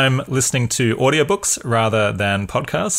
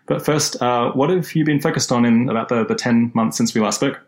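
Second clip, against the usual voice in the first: recorded on the wrong microphone; wrong microphone sound. Real, not acted. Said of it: "I was recording on the wrong microphone".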